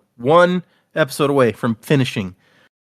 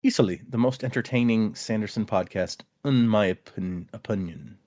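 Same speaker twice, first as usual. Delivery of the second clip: halting Kiwi try, I's turned to U's; attempted New Zealand accent; 2 semitones lower, 5 dB quieter than usual. Host retrying a fan's email, attempted New Zealand accent. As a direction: feel out New Zealand vowels, slowing on "opinion". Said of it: "trying to replace the I's with U's".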